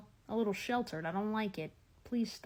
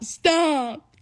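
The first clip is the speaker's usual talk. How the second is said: higher, louder, pleading stop; 6 semitones higher, 8 dB louder than usual. Retold or imitated. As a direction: cry out stop like begging. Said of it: "And they just, ah".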